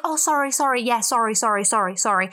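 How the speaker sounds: a fluttery string of sorries tumbling out; over-apologize like a polite Brit; light, rushed run of apologies; apologetic Brit. Retold or imitated. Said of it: "we just love saying sorry".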